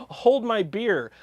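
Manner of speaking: loud, laughing, cocky boast; mock cocky. Copycat company boasting before copying Gibson, laughing mock bravado. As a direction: brag with a laugh like a daredevil. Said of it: "what you did is say".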